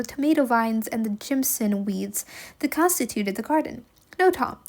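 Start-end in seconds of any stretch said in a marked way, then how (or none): 4.2-4.6 calling out. Acted. Aunt calling for Tom.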